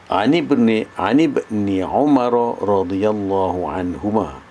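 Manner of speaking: measured Arabic reading, words linked; connected recitation. Shown as a demonstration. Teacher models the hadith opening for students, read connectedly. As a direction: recite it straight through, "Ani bin" run together. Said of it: "baca terus macam tu".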